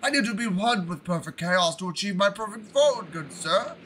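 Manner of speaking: lightly put-on posh English gentleman; a hint of a prim gentleman pleading politely; imagined Froggy voice. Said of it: "That's how I imagine Froggy talks".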